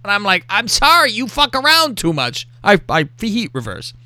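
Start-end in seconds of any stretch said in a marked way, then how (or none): 0.5-2.5 defensive retold apology. Retold apology turning into blame.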